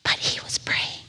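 breaking into a whisper, overcome; barely holding it together while telling it; choked up. Real, not acted. Chaplain moved by the memory, voice breaking to a whisper. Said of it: "I'm gonna get a little emotional".

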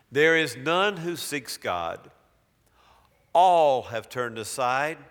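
slow, weighty reading of scripture; solemn Bible reading from the pulpit. Acted. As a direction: read each line slowly as holy words. Preacher reads Romans aloud.

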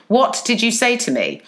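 retold public challenge, falling at the end; mock loud confrontation. Worker confronts bully in open plan office, firm retold challenge. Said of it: "like, really loudly".

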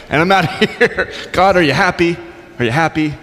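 lightly acted huffy retort; grudging prophet, a touch exasperated; mock petulance. Voicing Jonah's grudging retort to God.

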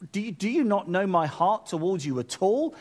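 a touch of hurt indignation; indignant. Acted. Jesus asking if his heart is not known, indignant. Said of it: "That's why Jesus was indignant".

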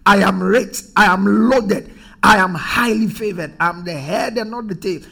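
firm, emphatic affirmation; bold declaration. Acted. Preacher modelling declarations for someone who is broke, bold declaration. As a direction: declare it with conviction, punching the middle phrases. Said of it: "You declare".

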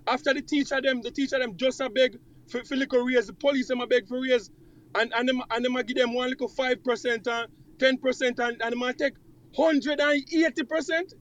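slips into Jamaican patois mid-rant; heated complaint in broad Jamaican patois. Real, not acted. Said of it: "bring out the patois now".

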